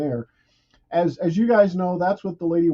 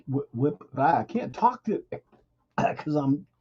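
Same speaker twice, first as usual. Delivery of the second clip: talking while choking on saliva; coughing, throat catching on saliva. Real, not acted. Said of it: "choking on my saliva".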